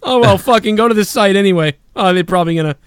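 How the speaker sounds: high, mocking voice; mocking Bailey. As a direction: whine it in a high put-on voice. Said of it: "Bailey fucking goes".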